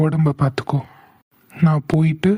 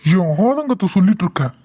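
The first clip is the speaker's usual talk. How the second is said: raised voice; 5 semitones higher than usual. Acted. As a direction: drag out the denial, voice climbing. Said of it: "இப்ப எதுக்கு என்கிட்ட கத்துறீங்க".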